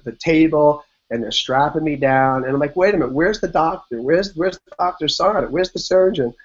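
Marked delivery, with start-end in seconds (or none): 2.8-6.3 higher, urgent repeated questions; where's my doctor, worried; anxious. Retold or imitated. Strapped-down patient asking staff for the surgeon, retold anxiety.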